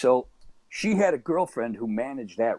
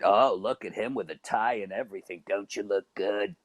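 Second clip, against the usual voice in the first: imitating smoker woman; 2 semitones lower than usual. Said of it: "She smoked a lot of cigarettes".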